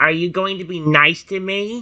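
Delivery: put-on cartoon creature voice. Reading the subtitle line for a new character: Dark Type Totodile voice. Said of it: "the one I'm so used to doing with him".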